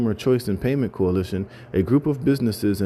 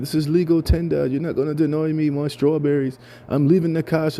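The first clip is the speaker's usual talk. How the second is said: mock-indignant British accent, pitched up; 6 semitones higher than usual. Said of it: "in this little accent".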